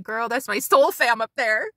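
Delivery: drawn-out, excited imitation of the neighbor. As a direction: stretch it out, playing the thrilled neighbor. Acting out excited neighbor at UFOs.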